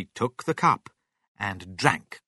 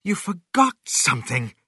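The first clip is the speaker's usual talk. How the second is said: raised, higher-pitched accusing cry; 7 semitones higher, 5 dB louder than usual. A narrator's reading. Mister Cranky blames George for a missing ingredient, crying out. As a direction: call it out as an accusation. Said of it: "cried Mister Cranky".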